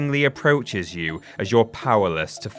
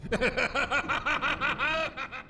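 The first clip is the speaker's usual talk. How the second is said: madman cackle; 8 dB quieter than usual. Retold or imitated. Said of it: "the outcries of the local madman".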